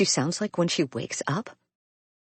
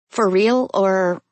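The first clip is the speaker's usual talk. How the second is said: excited; 6 semitones higher, 7 dB louder, slower than usual. A narrator's reading. Excited question.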